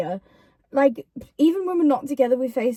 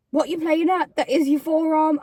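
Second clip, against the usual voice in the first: imitating exasperation; 4 semitones higher than usual. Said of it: "I didn't say it like that".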